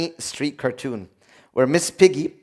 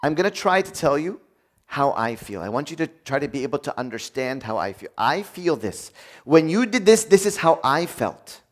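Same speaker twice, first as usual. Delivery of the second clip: calm complaint. Shown as a demonstration. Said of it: "it's saying".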